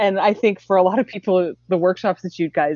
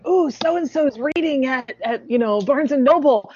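excited announcement; 5 semitones higher than usual. Acted. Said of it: "when you say".

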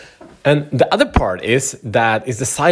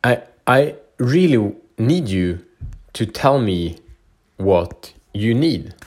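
sincere request; slower than usual. Shown as a demonstration. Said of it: "And then you say".

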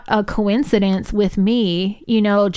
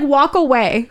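mock stern order; 5 semitones higher than usual. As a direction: order them off, half amused. Retelling own order to relative.

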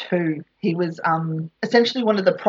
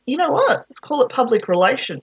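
mock eureka pitch; 6 semitones higher than usual. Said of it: "And he just went".

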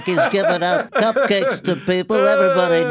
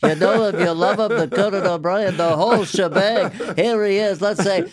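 Regis impression. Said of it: "I like doing Regis Philbin".

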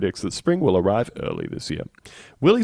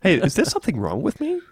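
groundhog voice; 5 semitones higher than usual. Pretend. Groundhog voiced asking interpreter.

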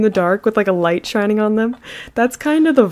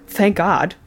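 retold disbelief. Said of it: "And he's like".

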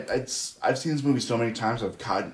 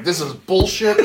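laughing; 6 semitones higher, 3 dB louder, slower than usual. Real, not acted. Recalling the nitpick episode, laughing.

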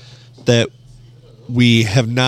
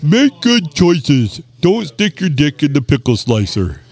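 caller impression; 3 semitones higher, slower than usual. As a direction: read it as the caller would. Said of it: "my best impersonation of this person".

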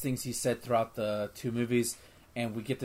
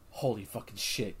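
stunned reaction; 5 semitones lower, 9 dB quieter than usual. Retold or imitated. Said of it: "and I went".

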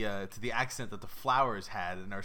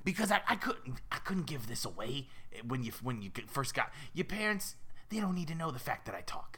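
secretive goldfish with a New York rasp; raspy New Yorker. Acted. Fish keeping its talking secret from parents, raspy New York voice. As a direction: justify yourself like a rough New Yorker. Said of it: "They all sound like raspy New Yorkers".

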